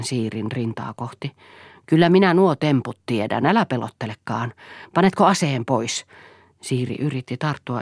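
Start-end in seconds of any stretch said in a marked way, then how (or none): 1.9-6.1 defiant challenge. Acted. Siiri faces the gun.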